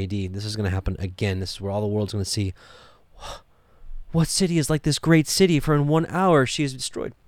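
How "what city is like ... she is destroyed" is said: mock lament. Quoting the world's lament.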